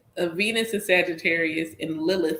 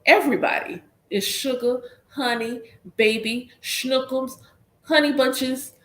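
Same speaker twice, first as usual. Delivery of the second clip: high, sweet-talking list of endearments; Southern sweet talk, one endearment at a time; Southern pet names; 6 semitones higher than usual. Shown as a demonstration. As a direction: dole out pet names, pitched up. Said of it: "like, I'm Southern".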